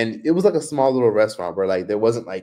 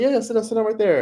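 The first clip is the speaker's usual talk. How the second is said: much higher, eager urging voice; pushy server; 12 semitones higher, faster than usual. Retold or imitated. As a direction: hurry her to sit, high and insistent. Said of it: "he literally was like".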